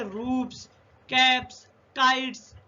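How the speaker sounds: रूफ्स, कैप्स, काइट्स ending in voiceless S; रूफ्स, कैप्स, काइट्स separately, each closing on S; final S sound. Shown as a demonstration. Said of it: "एस पढ़ रहे हैं".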